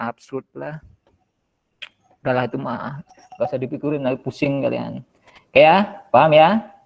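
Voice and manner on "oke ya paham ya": muffled through a mask; through a face mask. Real, not acted. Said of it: "Sorry saya pakai masker".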